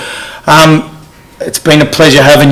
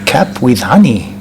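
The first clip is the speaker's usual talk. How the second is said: slow, exaggerated soft whisper; 5 semitones lower, 5 dB quieter, slower than usual. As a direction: spell it out slowly under your breath. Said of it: "Either you're not a very good whisperer".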